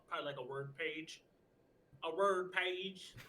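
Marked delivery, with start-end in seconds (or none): 2.0-3.2 drawn out slowly and louder; slow emphasis. Real, not acted. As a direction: stretch each word with disbelief. Repeats words slowly.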